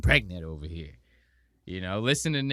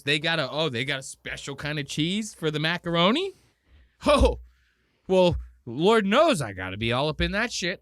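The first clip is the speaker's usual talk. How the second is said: mock excited Nick; 3 semitones higher, 4 dB louder than usual. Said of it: "And he goes".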